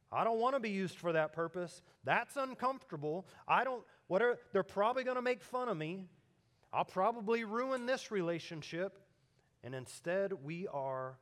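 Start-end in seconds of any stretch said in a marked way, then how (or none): 0.1-9.0 higher, louder mock complaint; raised-pitch excuse-making; protesting clay pot. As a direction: act out a reluctant pot balking at the potter. Voicing reluctant clay pot's protest.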